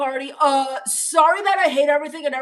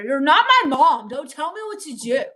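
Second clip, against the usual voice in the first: bratty retort; 2 semitones higher, 5 dB louder than usual. Real, not acted. Snapping back at chat advice.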